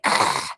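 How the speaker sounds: short throaty rasp noise; imitated raspy voice. Son imitates a fisherman's smoked-out voice, mock raspy noise. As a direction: mimic a raspy throat with one rough sound. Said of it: "His voice sounds really like".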